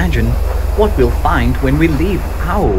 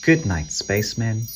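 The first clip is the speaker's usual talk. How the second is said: fading goodnight; 8 dB quieter than usual. Acted. Ending bedtime story.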